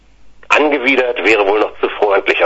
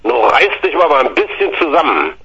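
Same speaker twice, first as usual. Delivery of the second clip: father snapping; 4 semitones higher than usual. Retold or imitated. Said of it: "schnauzte mich mein Vater an".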